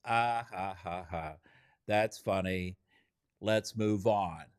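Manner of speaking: token laugh, then slow and low; dismissive mock chuckle. Acting out a group brushing off a joke, dismissive mock chuckle. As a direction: chuckle politely, then wrap it up slowly. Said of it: "When people laugh in a group setting".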